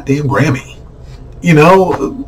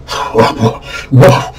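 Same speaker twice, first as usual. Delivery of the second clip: exaggerated fake crying; breathy, hammed-up sob; mock sobbing; 2 semitones lower than usual. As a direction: blubber in mockery. Mocking outraged student's crying.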